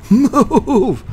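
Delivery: high, loud shout; yelling. Real, not acted. Yelling at the kid blocking his build, high and loud. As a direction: scream "Move!" high and loud. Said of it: "Totally not yelling".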